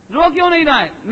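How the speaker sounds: anxious, urgent asking; worried relative asking why the newborn won't cry. Retold or imitated. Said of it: "ऐसा तकलीफ लगती है".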